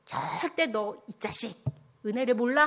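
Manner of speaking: hammed-up telling-off, building in force; mock scolding. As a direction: pretend to scold an ungrateful child. Acting out an angry God.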